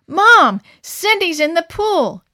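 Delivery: loud, high alarmed call, slowing on the pool; crying out. Acted. Boy racing back to tell mom, alarmed shout. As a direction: shout the news in a panic. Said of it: "Adam cried".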